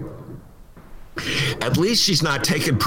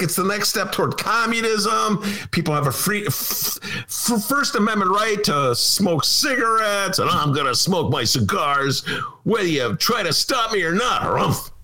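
complaining Ditka; 5 semitones higher than usual. Retold or imitated. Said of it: "He was complaining".

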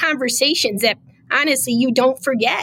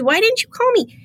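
mock pleading mayor; 10 semitones higher than usual. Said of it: "And she goes".

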